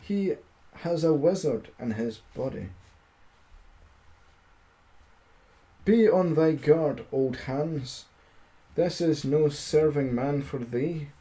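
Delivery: steady storybook reading voice; story narration. A narrator's reading. Streamer reading a fairy tale to his chat, storybook narration. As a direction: read the fairy tale aloud to listeners.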